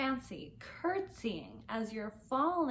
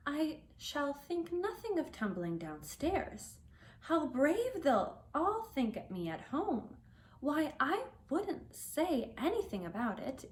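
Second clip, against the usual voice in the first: put-on a little girl's voice, a bit higher; young Alice, boasting brightly to herself; Alice's voice; 4 semitones higher than usual.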